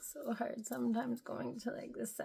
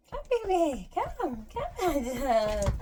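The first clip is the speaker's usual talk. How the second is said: calling the dog; 3 semitones higher, 8 dB louder, slower than usual. Real, not acted.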